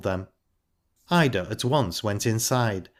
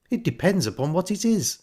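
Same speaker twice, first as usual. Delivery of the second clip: higher-pitched, mildly uneasy reply; rather nervous; 9 semitones higher than usual. A narrator's reading. Missus Bryce, unsure of Ida's idea, rather nervously. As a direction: answer warily, a touch nervous. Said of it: "rather nervously".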